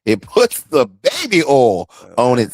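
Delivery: slow, low movie-villain voice; creepy villain. Acted. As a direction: draw it out like a creepy captor. Quoting a creepy movie villain's line.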